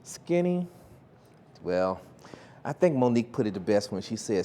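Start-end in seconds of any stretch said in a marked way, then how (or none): 0.0-0.7 scoffing. Real, not acted. Scoffing at the idea of skinny.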